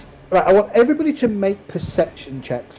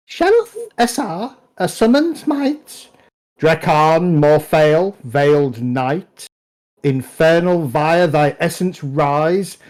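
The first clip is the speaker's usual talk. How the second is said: crow-like incantation; 2 semitones higher than usual. Acted. Game master voices a crow reciting a summoning spell, crow-like chant. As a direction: intone a dark spell like a crow. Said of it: "crow-like voice that you had heard mocking and repeating".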